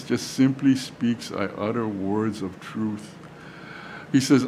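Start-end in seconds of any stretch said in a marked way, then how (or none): 1.3-3.1 slow, low-key and unwavering; calm, cool. Acted. Paul simply speaking truth to the king, calm and cool. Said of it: "unwavering in his calm and coolness".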